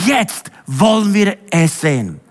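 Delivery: slow, insistent plea to God; calling out to God. Acted. Congregation imploring God for revival, calling out. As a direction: draw out an urgent appeal. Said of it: "rufen zu Gott".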